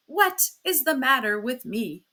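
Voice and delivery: offended mock quotation; indignant mimicry. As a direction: throw the question back in outrage. Husband indignantly mimics wife's question.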